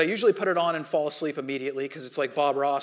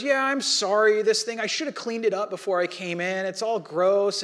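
embarrassed laugh; 3 semitones higher, 4 dB louder than usual. Retold or imitated. Old lady apologizes for dirty table.

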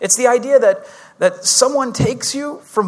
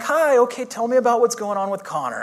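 lightly voiced sweet lady, high on the greeting; a hint of a kindly phone nurse; 4 semitones higher than usual. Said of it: "the sweetest lady answered".

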